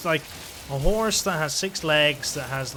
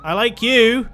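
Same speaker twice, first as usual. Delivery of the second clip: high, loud, delighted declaration; gushing affection; 6 semitones higher, 8 dB louder than usual. Real, not acted. Player talks to the baby creature, gushing delight. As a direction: gush loudly at an adorable creature.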